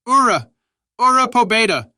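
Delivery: very high, loud battle cry; long, full-voiced charging yell; war cry. A narrator's reading. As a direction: roar it like a charging horde. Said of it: "we could hear the Russian cries".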